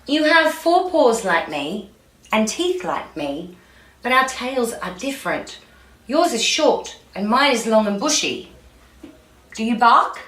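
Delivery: a hint of a fox character, measured and pondering; lightly voiced fox. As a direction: compare point by point as a storybook fox.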